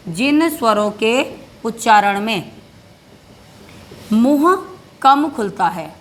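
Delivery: slow dictation, pausing between phrases; dictation pace. Shown as a demonstration. Teacher dictates the definition, slow and paused. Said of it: "परिभाषा भी लिखनी पड़ेगी आपको".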